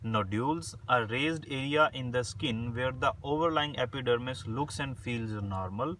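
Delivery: slow, spaced-out dictation reading; word by word like dictating notes. Shown as a demonstration. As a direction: read the definition slowly so students can write it down. Reads English definition for dictation.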